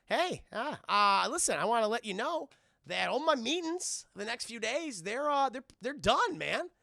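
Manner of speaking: put-on trying too hard to cheer up a kid; forced cheerful dad. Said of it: "And he's like".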